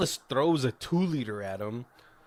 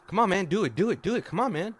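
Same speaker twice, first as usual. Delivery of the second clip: eager pleading; 8 semitones higher, 5 dB louder, faster than usual. Retold or imitated. Friend begging for mind reading.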